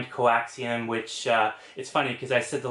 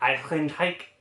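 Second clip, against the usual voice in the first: name given a German pronunciation; 4 semitones higher than usual. Trying to pronounce an actor's name with his greatest German accent. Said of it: "let me try my greatest German accent here".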